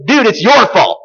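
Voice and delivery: casual blame. Retold or imitated. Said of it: "In other words".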